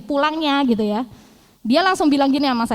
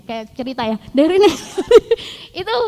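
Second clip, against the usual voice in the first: ordinary delivery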